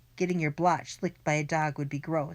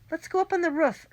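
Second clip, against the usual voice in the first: urgent; 12 semitones higher, 4 dB louder, faster than usual. A narrator's reading. Friend urging an escape.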